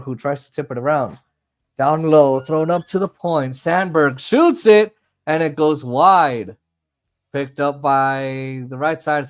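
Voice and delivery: running commentary rising on each shot; live hockey call with stretched key words; excited hockey play-by-play. Acted.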